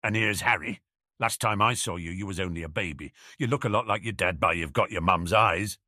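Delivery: lightly voiced friendly rustic giant; a touch of fond, homely character voice; Hagrid. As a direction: greet a child you knew as a baby. Plays Hagrid greeting Harry.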